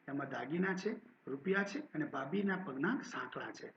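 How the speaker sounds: steady, clear story narration; story reading. A narrator's reading. Teacher reading a Gujarati story aloud to students, steady narration. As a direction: read the story to the class.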